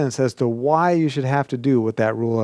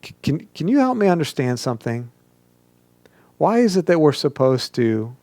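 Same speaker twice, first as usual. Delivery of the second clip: genuinely asking, tentative start; measured, curious request for help; sincere question. Shown as a demonstration. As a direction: ask humbly, wanting to understand. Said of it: "question mark".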